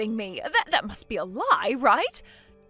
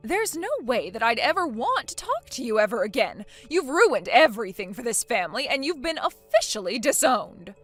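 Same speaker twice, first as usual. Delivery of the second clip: loud, final condemnation, slowing at the end; angry disowning; 4 dB louder than usual. Acted. Mother-in-law disowning her son's wife, loud and furious. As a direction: throw her out for good.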